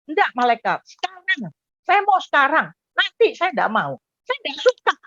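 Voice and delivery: pleading protest, jumping high at points; insistent refusal. Retold or imitated. Telling the angel he wants in now, insistent refusal. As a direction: refuse like someone begging to stay.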